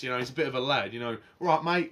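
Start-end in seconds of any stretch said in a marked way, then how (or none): 1.4-1.9 a quick, casual Cockney "Right, mate" in imitation of Ben; lightly put-on Cockney lad greeting; light Cockney impression. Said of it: "He talks a bit like this".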